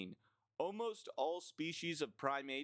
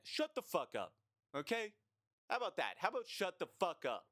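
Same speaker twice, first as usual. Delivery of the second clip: exasperated outburst; 7 semitones higher than usual. Real, not acted. Ranting at complainers.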